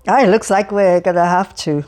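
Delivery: put-on loud, chatty, cheerful old man voice; cheerful Alferov. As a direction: prattle on brightly to a stranger.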